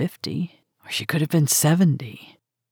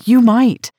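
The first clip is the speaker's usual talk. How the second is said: much higher and louder, YOU pressed hard; almost shouting in desperation; repeating her plea even more desperately, near a cry; 8 semitones higher, 9 dB louder than usual. A narrator's reading. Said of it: "I said desperately".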